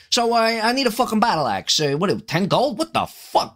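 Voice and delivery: put-on brash New Jersey accent; tough-talking Jersey dwarf customer. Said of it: "dwarf character is gonna be from".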